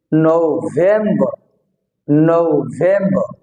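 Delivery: নভেম্বর drawn out from a gliding "nou"; slow "nou-vem-ba" for নভেম্বর; "nou" vowel. Shown as a demonstration. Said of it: "ঔকার হয়েছে ওর কারণে".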